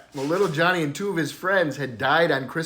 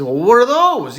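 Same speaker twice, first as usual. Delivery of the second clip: Saint Peter asking; 7 semitones higher, 6 dB louder than usual. Acted. Saint Peter questions the boy.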